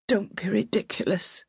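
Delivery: faint, breathy whisper of protest; feeble. A narrator's reading. Hurt old lady to her nurse, feeble whisper. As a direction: barely get it out, weak. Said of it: "her voice was feeble".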